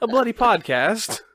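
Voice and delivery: high, slow British grumble; mock British singer. Pretend singer discovers the podcast, mock British. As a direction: draw out a put-on British accent. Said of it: "she'll be like".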